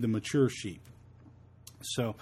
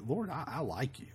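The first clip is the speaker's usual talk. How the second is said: meek Peter; 8 dB quieter than usual. Retold or imitated. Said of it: "the best Peter could do is just say".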